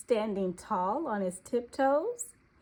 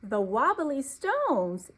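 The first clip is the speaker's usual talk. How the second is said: cheering; 3 semitones higher, slower than usual. Acted. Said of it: "cheered little deer".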